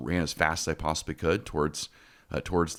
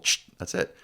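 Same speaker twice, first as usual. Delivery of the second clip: whispered calming shush. Retold or imitated. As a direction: hush the dog like the dog whisperer. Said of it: "little Neo from The Matrix".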